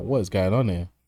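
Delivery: plain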